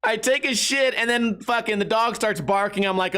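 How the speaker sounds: normal talking voice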